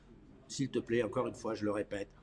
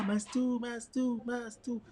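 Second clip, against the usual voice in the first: appel joyeux; 9 semitones higher, much slower than usual. Real, not acted. Accueille un auditeur à l'antenne.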